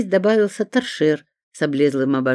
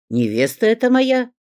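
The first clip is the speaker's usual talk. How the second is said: cutting retort; 8 semitones higher, 4 dB louder than usual. A narrator's reading. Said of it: "отрезал Петров".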